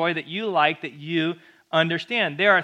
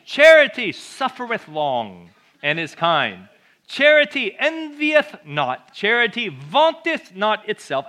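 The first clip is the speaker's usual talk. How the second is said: slow, louder, hammed-up British accent on old King James words; mock British accent; 3 semitones higher, 5 dB louder, slower than usual. Pastor mocking the King James wording with a British accent. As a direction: read it like a pompous British preacher, slowly. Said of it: "God does not speak in a British accent".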